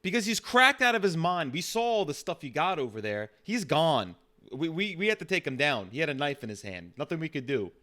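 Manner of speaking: high, loud, agitated cop justifying himself; excited officer defending what was done; worked-up police officer. Acted. Plays the officer.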